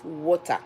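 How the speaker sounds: "water" with a crisp T, Nigerian way; Nigerian pronunciation. Shown as a demonstration. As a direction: say "water" as "WAW-tah", hard T. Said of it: "the way we call it back home".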